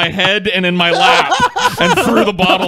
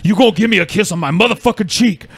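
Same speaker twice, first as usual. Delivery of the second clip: mock threat; 4 semitones higher than usual. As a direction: play the drunk friend bullying him for a kiss. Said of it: "and he was like".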